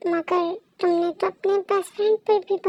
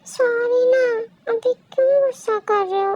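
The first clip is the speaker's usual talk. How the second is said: crying through the apology, a little higher; tearful plea; 3 semitones higher than usual. Acted. Wife begging her angry husband for forgiveness, tearful. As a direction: voice breaking as she begs him to stop. Wife pleads while scolded.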